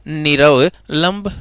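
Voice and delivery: निरवलंब drawn out syllable by syllable; slow dictation. Shown as a demonstration. Teacher to students, dictating the word slowly. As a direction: spell it out slowly for the class. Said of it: "निरवलंब शब्द क्या बनेगा".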